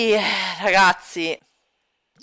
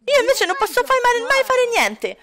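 whining shout; 11 semitones higher than usual. Acted. Son ranting to his father about rules, high whiny child. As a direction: kid throwing a tantrum at dad. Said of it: "Smettila di urlare".

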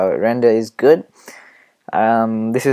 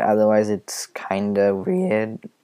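voice cracking. Real, not acted. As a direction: voice cracks on weird, whispery and slow. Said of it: "Ooh, my voice cracked".

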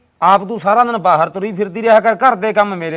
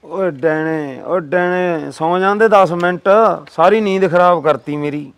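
sleepy grumbling; 2 semitones lower, slower than usual. Acted. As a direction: grumble as if just roused from sleep. Husband woken from sleep, complains. (ਨੀਂਦ ਵਿੱਚੋਂ ਉੱਠ ਕੇ ਬੁੜਬੁੜ)

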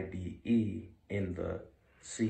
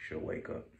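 whispering; 5 dB quieter than usual. Real, not acted. Dog asleep nearby.

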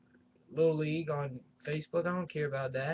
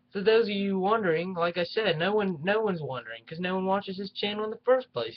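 raised, heated ranting voice, higher and louder; venting real frustration, voice climbing; real anger; 3 semitones higher, 4 dB louder than usual. Real, not acted. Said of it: "I know I'm getting angry on here".

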